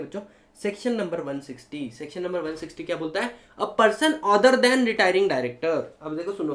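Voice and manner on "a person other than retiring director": slow dictation. Shown as a demonstration. Dictating the section text slowly.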